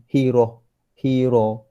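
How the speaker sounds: "Hiroh" with single r and o vowel; wrong pronunciation. Shown as a demonstration. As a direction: say "Hiroh" lightly, no doubling. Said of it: "Dia salah sebut". (sebutan salah tanpa sabdu)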